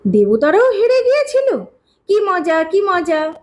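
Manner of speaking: put-on delighted child. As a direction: exclaim like a thrilled little boy. Child delighted at gods' defeat. (খুশিতে উচ্ছ্বসিত শিশুর গলা)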